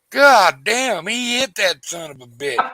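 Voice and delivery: high-pitched imitation of an amazed boy; excited kid. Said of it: "eleven or twelve-year-old kid back in the back".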